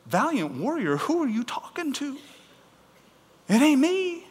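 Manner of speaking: high, squeaky comic bewilderment; incredulous Gideon. Acted. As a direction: query it as if they have the wrong man. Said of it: "You can imagine that Gideon standing there".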